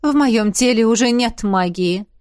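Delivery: usual speaking voice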